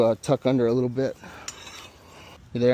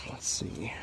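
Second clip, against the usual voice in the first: whispering; 3 semitones lower, 9 dB quieter than usual. Real, not acted. Muttering to himself at work.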